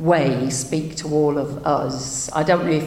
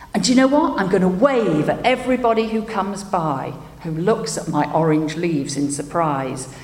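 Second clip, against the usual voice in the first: cheerful tree. Acted. Tree comforts doctor cheerfully.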